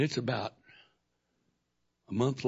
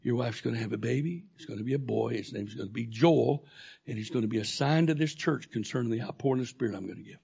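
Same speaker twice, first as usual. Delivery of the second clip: voice of God; 3 dB louder than usual. Retold or imitated. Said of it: "That voice said".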